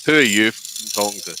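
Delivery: retold Scotsman, lightly voiced in Scottish; a gruff Scottish challenge, only lightly acted; deep Scottish accent. Scotsman answering an American visitor, retold Scottish accent. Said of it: "In this deep Scottish accent".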